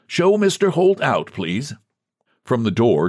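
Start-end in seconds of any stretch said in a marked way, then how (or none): 0.1-1.7 gentle bidding. A narrator's reading. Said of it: "gently bidding her".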